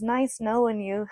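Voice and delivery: slow, innocent little wave-off; innocent goodbye. Retold or imitated. Son waving goodbye to his mom's friend, innocent and slow. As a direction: say it sweetly, like a kid waving bye. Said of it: "waves at me and goes".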